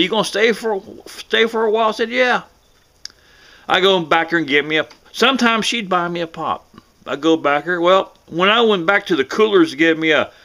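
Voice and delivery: normal talking voice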